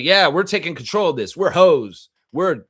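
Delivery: hammed-up unapologetic player; mock player voice. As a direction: ham up a defiant player. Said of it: "It's like".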